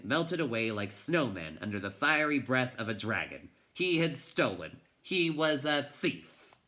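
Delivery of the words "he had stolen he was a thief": anguished realization. A narrator's reading. Guilt-stricken realization of theft.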